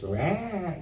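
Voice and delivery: high operatic "rah"; mock opera blare. Shown as a demonstration. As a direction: send up an opera singer with one big note. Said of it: "opera on film 'cause it looks".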